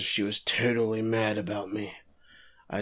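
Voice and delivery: put-on villain voice. Prosecutor recalls his affair in flashback, lightly put-on voice. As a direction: imitate a man recounting his downfall in a put-on voice. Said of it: "I'm done doing the voice".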